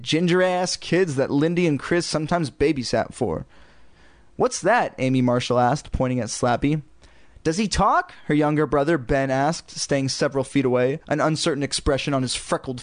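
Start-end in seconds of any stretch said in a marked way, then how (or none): 4.4-4.9 put-on high curious kid; child voice. A narrator's reading. Kid asking. 7.4-8.1 put-on high curious kid; child voice. A narrator's reading. Younger brother asks.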